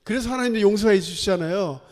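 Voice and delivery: mildly angry retold protest. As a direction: argue back at God with a touch of indignation. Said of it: "막 화를 내요, 요나가". (살짝 화난 듯 따지며)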